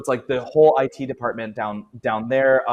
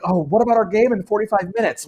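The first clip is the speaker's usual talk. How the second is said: frantic whine; 8 semitones higher, 5 dB louder than usual. Acted. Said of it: "And they're like".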